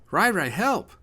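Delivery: put-on high, loud child's plea; cry for help. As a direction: cry out high to your big brother. Little brother cries as father attacks.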